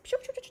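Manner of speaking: quick little whooshing noises; light, rapid swoosh sounds; swiping sound effect. Shown as a demonstration. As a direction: imitate a stick swiping on fast. Mimics quick swiping of stick.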